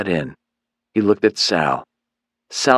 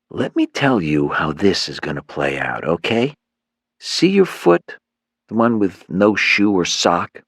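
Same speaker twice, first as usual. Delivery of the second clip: lightly voiced cocky goon, pitched up; a hint of a swaggering gang leader; cocky thug. Leader threatens captive Myron, lightly voiced swaggering goon.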